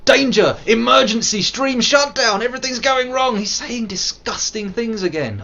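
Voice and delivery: very high, loud emergency announcer; mock alarm siren. Mock warning to chat about his own jokes, high and loud. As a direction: sound the alarm in hammed-up panic.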